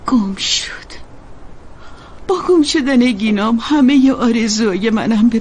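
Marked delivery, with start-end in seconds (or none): 0.1-0.9 tearful whisper. Acted. Mother recalls losing her son.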